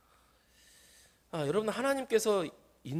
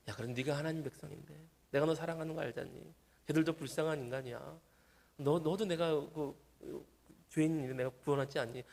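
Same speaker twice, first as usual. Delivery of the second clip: gentle exhortation, acted; 5 dB quieter than usual. God gently admonishes His own child, soft acted persuasion. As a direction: reason quietly, as a patient parent would. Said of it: "하나님께서 계속 권면하세요".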